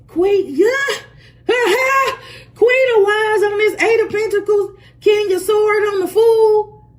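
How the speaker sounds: high, loud excited shouting with laughter. Real, not acted. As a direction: shout out the cards in real delight. Excited over the tarot cards.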